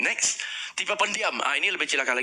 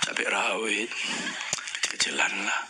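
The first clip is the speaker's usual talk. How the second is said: low, reluctant answer; 6 semitones lower than usual. Shown as a demonstration. Quiet customer answering.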